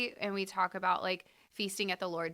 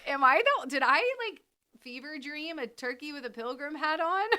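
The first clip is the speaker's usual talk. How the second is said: laughing disbelief; 8 semitones higher, 4 dB louder than usual. Retold or imitated. Laughing self-quote.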